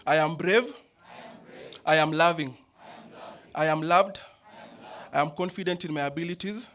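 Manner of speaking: loud, full-voiced affirmations; proud chanted declarations with energy; energetic shout. Real, not acted. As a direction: belt each line out with oomph. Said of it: "say it with some oomph, with some energy".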